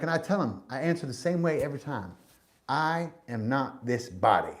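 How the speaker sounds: imitated Southern old-timer stating his creed; lightly put-on Southern accent, emphatic; thick Southern accent. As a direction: quote him in a Southern accent. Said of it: "he had a really thick Southern accent".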